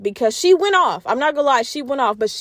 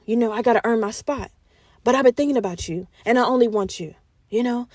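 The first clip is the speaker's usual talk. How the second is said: sweet-talking apology; 4 semitones lower, faster than usual. Retold or imitated. He sweet-talks Maleficent.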